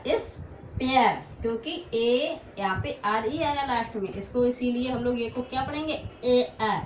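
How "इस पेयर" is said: इस पेयर drawn out slowly, falling; modeling the word. Shown as a demonstration. Teacher modeling इस पेयर for the class. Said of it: "क्या पढ़ा?".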